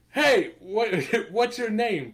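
put-on half-playful stranger hailing a child; imitating Fishburne calling out. Chess hustler calls to a departing kid, lightly voiced.

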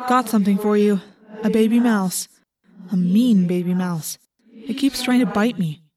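lightly voiced hawk, echoing; hawk scout. A narrator's reading. Tobias delivering a live mouse, lightly echoing hawk voice. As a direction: announce a catch from overhead.

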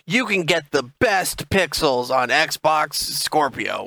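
slow, grand hype announcer; hype presenter. Retold or imitated. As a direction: sell it like a stage keynote. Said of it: "There was an E three presentation. It's like".

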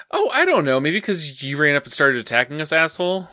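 high, mocking snap back; retold character shooting back sarcastically; sarcastic retort. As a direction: sneer the comeback upward. Retold snarky comeback to Glemmy.

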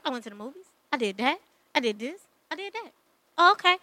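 soft, low imitation of dull small talk; mock small talk. Woman mimics her dude's how-was-your-day chat, quiet and offhand. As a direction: play a tame couple's chat, very softly.

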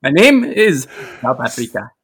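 playful put-on African accent; hammed-up attempt at an African accent; mock African accent. Customer giving a coffee order name, in a mock African accent. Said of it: "do it with that accent".

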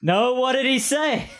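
high, slow and laughing; manager voice. Acted. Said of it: "two different voices that you're doing".

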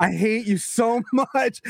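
imitating her younger self, half laughing at dad; slowed mock grudge; slow, exaggerated "I hate you". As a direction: drag it out like a kid in pain and annoyed. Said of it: "And I'm like".

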